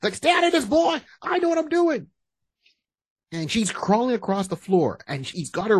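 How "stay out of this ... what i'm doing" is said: high, pushed imitation of an old soldier; mock angry father. Cotton telling his son to back off, high mock scolding. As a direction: brush the son off in a high cartoon voice.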